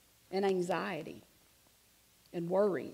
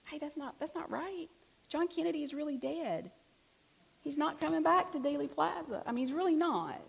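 firm correction; 8 semitones higher than usual. Shown as a demonstration. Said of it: "go ahead and say it if you need to".

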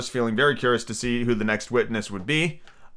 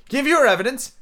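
king voice; 12 semitones higher than usual. Acted.

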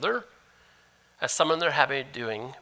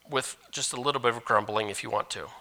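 deliberate misreading; 4 semitones lower, faster than usual. Shown as a demonstration. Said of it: "No, that doesn't".

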